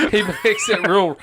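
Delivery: high giggle breaking into the words; laughing. Real, not acted. Telling a silly movie idea, laughing. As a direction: laugh through it. Laughing mid-sentence at own joke.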